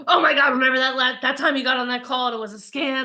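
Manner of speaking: sudden loud burst of panicked worry; a startled inner voice recalling the scam, loud and alarmed; panicky inner voice. Retold or imitated. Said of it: "And then you have".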